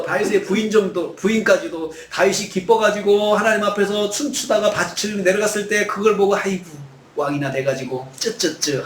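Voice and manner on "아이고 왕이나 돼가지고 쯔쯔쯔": tutting scorn. Retold or imitated. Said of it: "부인도 자기를 비난하는".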